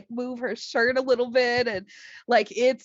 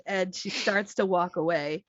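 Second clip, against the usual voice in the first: ordinary talk, nothing marked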